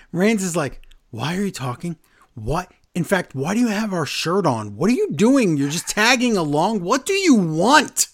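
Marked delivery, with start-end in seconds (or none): 1.1-8.1 mock interrogation. Reigns interrogating Sami.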